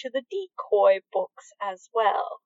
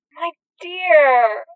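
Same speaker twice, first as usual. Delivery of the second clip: delighted, gushing warmth; beaming with joy; 4 semitones higher, 5 dB louder than usual. Acted. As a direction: glow with happiness as you say it.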